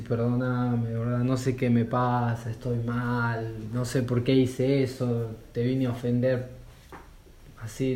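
a hint of a cousin sobbing for forgiveness; retold crying plea. Cousin apologizing to Dante, begging help, softly tearful. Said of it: "Y se pone a llorar".

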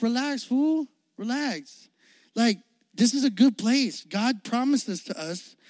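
lightly voiced, casual reassuring buddy; calming Joshua. Joshua calming the scared crowd, lightly voiced. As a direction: talk friends down, relaxed. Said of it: "Joshua's like".

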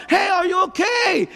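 concerned holler from the road; calling out. Retold or imitated. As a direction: shout down to the crash. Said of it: "someone yells out from above".

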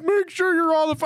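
high, strained voice holding back laughter; trying not to laugh. Retold or imitated. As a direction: imitate a manager fighting giggles. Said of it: "he's, like, trying not to laugh".

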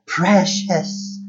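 a hint of a falling wail; Gollum's last wail. Gollum falling into the chasm, a mild wail. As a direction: let it drop away as he falls. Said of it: "came his last wail".

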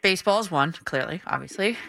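muffled behind hands; hands over mouth. Real, not acted. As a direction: talk through covered mouth. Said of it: "I have my hands over my mouth".

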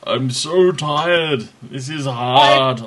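slow, loud mock German whine; German accent. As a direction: drag it out in a bad German accent. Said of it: "my terrible German accent".

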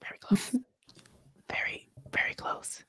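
whispered aside. Real, not acted. Agreeing in a teasing whisper. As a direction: breathe it under your breath.

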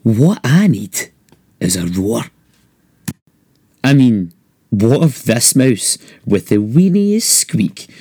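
put-on lively rhyming read-aloud for children; storybook narration. A narrator's reading. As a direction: read it like a bedtime picture book. Reading picture book aloud.

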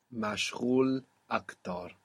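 مشغول أكتر with a throaty ghain; correct model. Shown as a demonstration. Teacher repeats the corrected phrase. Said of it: "not to assimilate this R".

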